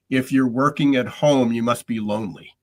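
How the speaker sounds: mock-obvious, leaning hard on "obviously"; facetious. Shown as a demonstration. Host mocking the assumption about working from home, facetious. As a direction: state it facetiously, as if self-evident. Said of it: "I say this facetiously".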